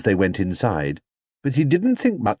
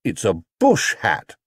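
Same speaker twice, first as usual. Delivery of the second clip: proud bear. Acted. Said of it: "said Paddington proudly".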